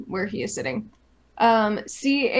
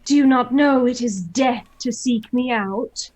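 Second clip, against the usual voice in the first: louder, booming banshee threat; dark lord; 2 semitones higher, 5 dB louder than usual. Acted. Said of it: "and say".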